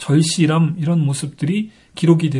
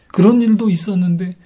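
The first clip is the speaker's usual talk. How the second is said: retold cry of longing; understated, preacherly lament; anguished plea; 3 semitones higher than usual. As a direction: plead to God in mild anguish. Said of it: "이렇게 안타깝게 절규하고 있는 것입니다".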